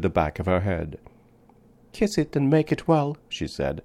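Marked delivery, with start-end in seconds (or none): 1.9-3.2 put-on much higher child voice, earnest and serious; a small child asking in total seriousness; grave little girl. A narrator's reading. Little girl to the man about her sore head, high earnest child voice. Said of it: "with perfect gravity".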